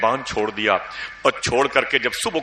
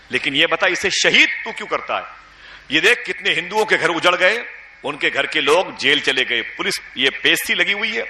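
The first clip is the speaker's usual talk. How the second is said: scolding; 5 semitones higher than usual. Retold or imitated. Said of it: "بہت ڈانٹا".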